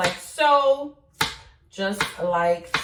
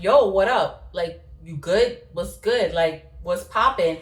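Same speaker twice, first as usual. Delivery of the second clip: laid-back Brooklyn hood accent; hood talk; 3 semitones lower than usual. Shown as a demonstration. Vlogger showing how she talks in Brooklyn, hood accent. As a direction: greet them in casual Brooklyn slang talk. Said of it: "I can talk hood".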